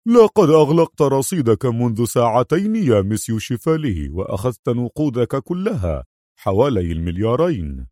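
mildly surprised reply; a touch of bewilderment; astonished. Acted. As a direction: answer with puzzled surprise. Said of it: "أجابه مدير البنك في دهشة".

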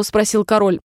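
plain reading voice

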